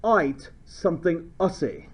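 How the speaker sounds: mock Australian vowels, ATE like "ite"; lightly hammed Australian twang; Australian accent. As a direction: put on a joking Australian accent. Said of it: "Or if you're Australian".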